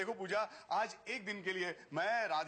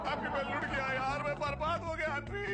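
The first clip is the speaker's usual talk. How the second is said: distressed wail; 4 semitones higher than usual. Acted. Robbed man lamenting to his friend, wailing. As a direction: moan it like a ruined man.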